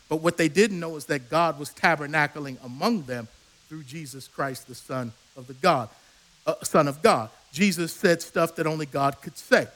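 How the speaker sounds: low, soft and intimate; hushed reverence. Real, not acted. Preacher telling the congregation who Jesus really is, hushed. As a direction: drop the voice down to a reverent hush.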